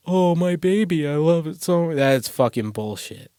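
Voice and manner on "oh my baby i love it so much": high, loud mock doting dad voice; mocking gushing new dad. Mocking a guy who brags about his baby, high doting coo. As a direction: ham up a guy cooing over his baby. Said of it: "when a guy's like".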